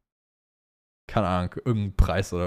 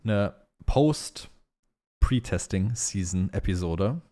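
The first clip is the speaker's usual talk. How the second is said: stumbling slowly over the words; tongue-tied, slow and fumbling; 2 semitones lower, much slower than usual. Real, not acted. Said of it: "ich kann nicht reden heute".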